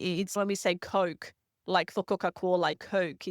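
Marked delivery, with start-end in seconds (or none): 0.8-1.3 "Coke" said with a long Aussie "oo" glide; long oo vowel. Shown as a demonstration. 2.8-3.3 "Coke" with the Aussie gliding vowel; long oo vowel. Shown as a demonstration.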